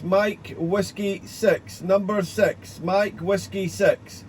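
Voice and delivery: slow, deliberate "Mike Whiskey six" with "six" stressed. Shown as a demonstration. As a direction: spell out "number six" slowly and clearly. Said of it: "a correction on my prefix".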